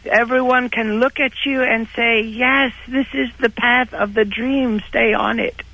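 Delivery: A singer's voice. Pretend.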